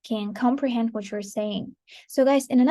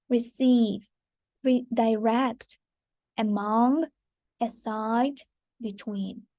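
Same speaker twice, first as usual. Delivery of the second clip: "Receive, redirect, among, aside, between" weighted after the first syllable; second-syllable stress; slower than usual. Shown as a demonstration. Teacher reading out examples, second-syllable stress on "Receive, redirect, among, aside, between". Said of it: "the stress is on the second syllable".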